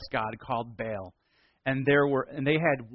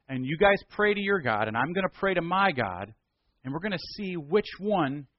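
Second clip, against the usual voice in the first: eager challenge; 2 semitones higher than usual. Acted. Preacher voicing Elijah's challenge.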